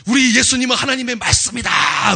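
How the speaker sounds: loud, high proclamation; proclaiming. Acted. Preacher to congregation, thundering proclamation. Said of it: "외치는 거예요".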